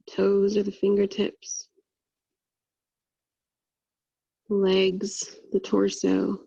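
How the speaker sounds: even, unhurried meditation voice with long pauses; guided meditation. Acted. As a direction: guide them through a body scan, leaving long silences.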